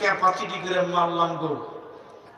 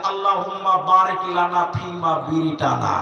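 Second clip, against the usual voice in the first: laughing recitation; 3 semitones lower, slower than usual. Retold or imitated. Reciting the boy's silly prayer.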